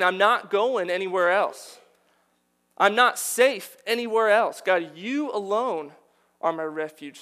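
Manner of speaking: impassioned plea. Acted. Preacher voicing David begging God for refuge, loud impassioned plea. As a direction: plead as if no other shelter exists.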